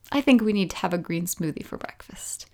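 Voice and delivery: soft calm whisper; heart's whisper. Retold or imitated. Her heart answering in a soft whisper. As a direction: gently overrule her, hushed. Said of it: "my heart was like".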